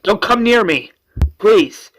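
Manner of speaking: high, loud plea; alarmed warning. Retold or imitated. Cornered woman to approaching guard, alarmed.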